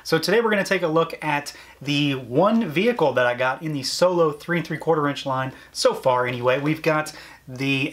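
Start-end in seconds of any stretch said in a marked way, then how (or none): none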